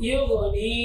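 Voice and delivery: ইউগনি with its last vowel sustained; one-alif stretch. Shown as a demonstration. Teacher shows the rule just explained, নি stretched in ইউগনি. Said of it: "একালিফ টান দিব".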